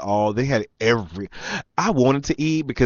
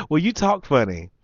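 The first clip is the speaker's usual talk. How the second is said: higher mock female voice; imitated flirting woman; 6 semitones higher than usual. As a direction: mimic her teasing remark. Mimicking the woman.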